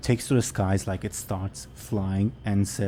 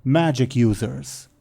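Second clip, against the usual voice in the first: slow, insistent dragon; lightly voiced dragon; 2 semitones higher, slower than usual. Dragon repeats.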